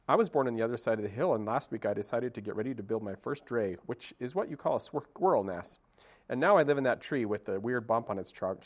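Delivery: fast, eager squirrel chatter; excited chatterbox. Acted. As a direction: rattle through the story in one breath. Squirrel shares stories.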